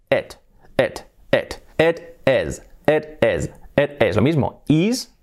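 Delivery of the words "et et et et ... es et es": "It is" with a short lax vowel, close to Spanish E; short open E-like vowels in "it is". Shown as a demonstration. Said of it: "vamos a hacer una E".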